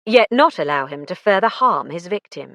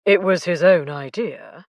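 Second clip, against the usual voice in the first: mild. A narrator's reading. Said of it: "Alec said mildly".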